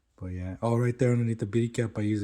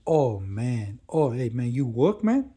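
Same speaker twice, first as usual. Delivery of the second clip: high, loud, eager hustler voice; pushy hustler dude; 3 semitones higher, 6 dB louder, slower than usual. Retold or imitated. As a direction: lay on the street-hustler pitch, higher and louder. Stranger quoted by narrator.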